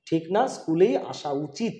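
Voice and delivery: slow, deliberate insistence on "স্কুলেই আসা উচিত"; emphatic. Real, not acted. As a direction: weigh out "স্কুলেই আসা উচিত" slowly and firmly. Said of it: "sir জোর দিয়ে বলছে".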